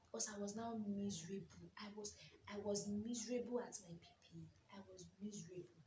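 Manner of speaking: whisper. Real, not acted. Recalling misery, whispered.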